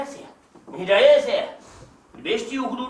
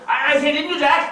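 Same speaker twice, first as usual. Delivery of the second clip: louder, pressing for an answer; insistent prodding; 4 semitones higher, 4 dB louder than usual. Acted. Cousin presses Jack to back him up, insistent. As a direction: push him until he agrees.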